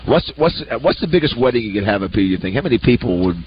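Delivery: talking with food in mouth; words around a bite of steak; mouth full. Real, not acted. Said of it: "you can tell there's food in your mouth".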